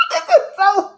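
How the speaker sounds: hammed-up crying wail, loud and slow; fake-sob it out, loud and drawn out; mock wailing. Streamer fake-wails to chat about sad news, hammed-up loud sob.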